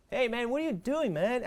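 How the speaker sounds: playful impression of a laid-back American dude; American English mannerism. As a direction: ham up a casual American guy. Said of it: "Aquela, aquele trejeito todo deles lá".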